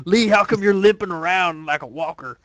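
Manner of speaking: lightly put-on character voice; a mild mock-accusing impression; Kenny. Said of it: "that was my Kenny impression".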